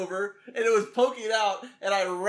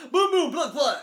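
playful plug; 6 semitones higher, 6 dB louder than usual. Real, not acted.

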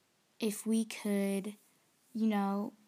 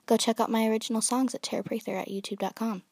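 loud, quick sales pitch; commercial announcer voice; 6 dB louder, faster than usual. Pretend. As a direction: read it like a TV ad. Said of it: "try to sound like a commercial person".

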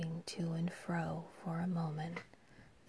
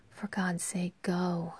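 stage-whispered cry; 6 dB louder than usual. Acted. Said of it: "she cried".

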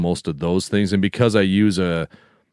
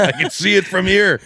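high teasing voice; 11 semitones higher than usual. Acted. Teasing reply in put-on voice.

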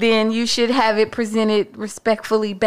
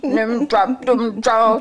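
bad acting; 3 semitones higher, slower than usual. Shown as a demonstration. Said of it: "that's very aggressive".

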